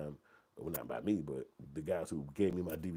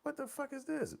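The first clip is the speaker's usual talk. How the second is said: outraged yell. Retold or imitated.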